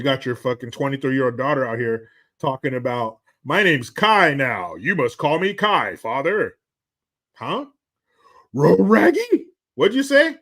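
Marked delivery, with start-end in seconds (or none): 3.4-6.6 slow, prissy mocking of the daughter; mock the kid's grand announcement, slowly; imitating a self-important grown child. Mocking daughter's new name demand. 7.3-10.4 high, loud Scooby-Doo style confusion; hammed-up disbelief, pitched way up; mock confused dad. Acting confused father, Scooby-style.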